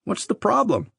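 light, high, clueless query; foolishly clueless question. A narrator's reading. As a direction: ask it naively, oblivious to the trouble. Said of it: "Like a fool, I asked".

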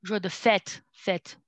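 "fête" as one syllable, no vowel after the t; teacher's correction, "fête" with silent final e; corrected pronunciation. Shown as a demonstration. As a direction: model "fête" ending cleanly on t. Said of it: "The pronunciation I corrected a little bit".

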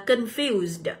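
"confused" stressed on FUSED; short weak first syllable in "confused", stress the second. Shown as a demonstration. Teacher reading option B, "confused" stressed on its second syllable. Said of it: "các bạn sẽ nhấn vào âm số hai".

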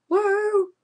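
high, loud real whoop; excited whoop. Real, not acted. Gamer cheering at the game, loud whoop. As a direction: let out a whoop of joy.

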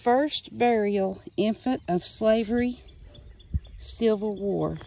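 reading the inscription aloud. Shown as a demonstration. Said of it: "I don't know what that means".

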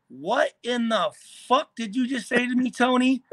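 retold angry challenge. Player squaring up to a rival, indignant. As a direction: confront him, leaning on the swear.

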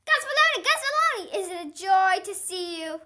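high, loud, delighted calling of his name; excited greeting. Acted. Junie greeting her favorite janitor Gus, high and loud with delight. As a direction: greet him like your favorite person.

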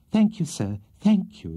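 high, overwrought thanks; hysterical. A narrator's reading. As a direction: gush gratitude on the verge of hysterics. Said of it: "exclaimed Missus Bardell hysterically".

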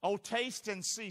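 slow, measured "Oh, taste and see"; unhurried quoting of the verse; slow scripture recital. Shown as a demonstration. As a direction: lay out each word of "taste and see" slowly. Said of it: "Say that scripture".

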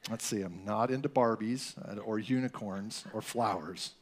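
put-on a shy kid searching for words, dragging them out; awkward boy talking to girls. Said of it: "it's like".

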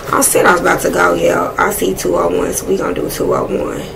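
muttering to herself; quiet aside. Real, not acted. Picking an angel number, muttered quietly to herself.

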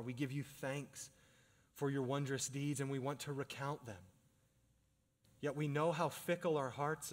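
measured, pleading pastoral prayer; earnest prayer. Real, not acted. Pastor leading the congregation in closing prayer, earnest prayer. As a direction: pray aloud in phrases, pausing between petitions.

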